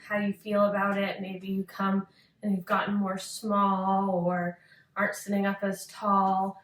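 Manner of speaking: unhurried meditation guidance with long pauses; calm yoga-teacher meditation voice; guided meditation. Acted. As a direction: lead a listener gently into focus, pausing between phrases.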